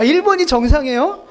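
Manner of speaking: laughing mock astonishment; amused disbelief. Shown as a demonstration. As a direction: ask it as if it were absurd, near laughing. Asks again in amused disbelief.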